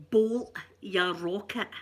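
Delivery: slow, breathy whispered Glasgow ned phrase; Glasgow street accent. Shown as a demonstration. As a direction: whisper the ned insult slowly. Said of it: "That's another wee Ned phrase".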